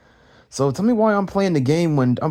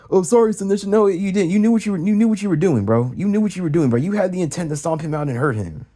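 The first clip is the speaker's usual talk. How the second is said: mock accusation; 4 semitones higher than usual. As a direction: imitate the accusers blaming him. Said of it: "mocking an accusing voice".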